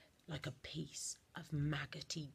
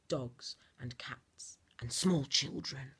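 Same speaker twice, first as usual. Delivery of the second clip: slow, louder stage whisper; slow menacing whisper; 6 dB louder, slower than usual. A narrator's reading. Narrator revealing what she hits, slow stage whisper. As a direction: drag out the list in a wicked whisper.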